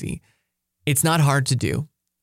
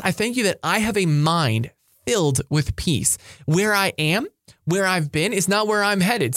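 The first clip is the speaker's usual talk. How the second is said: prayer; 3 semitones higher than usual. Shown as a demonstration. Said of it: "For example".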